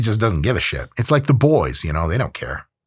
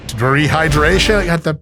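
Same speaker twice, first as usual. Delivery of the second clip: hero offer; 4 semitones higher, 4 dB louder than usual. Pretend. Element Man bursts in.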